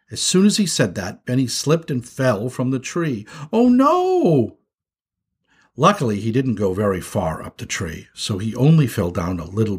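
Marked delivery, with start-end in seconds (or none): 3.5-4.6 high, alarmed exclamation; drawn-out shocked wail; horrified cry. Acted. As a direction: cry out as someone falls. Brother falls from the tree.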